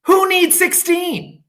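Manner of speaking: high, slow scornful question; indignant child. Acted. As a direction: scoff at the teacher, drawn out high. Child dismissing teacher.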